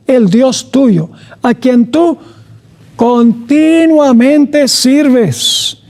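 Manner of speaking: very slow "continuamente sirves"; keyword stressed. Shown as a demonstration. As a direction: drag out "continuamente" as the key word. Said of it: "la palabra clave". (palabra clave "continuamente", muy lenta)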